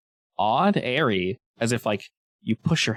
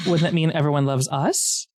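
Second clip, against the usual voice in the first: lightly voiced snake, raised pitch; talking snake; 5 semitones higher than usual. Snake claims to be her double, slightly raised creature voice. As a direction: question them as a sly snake double. Snake with player's face replies.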